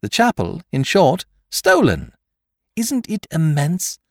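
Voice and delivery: high, loud rapture; enthralled by the thief's genius; carried away. A narrator's reading. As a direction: gush with admiration. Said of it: "allowing yourself to be carried away".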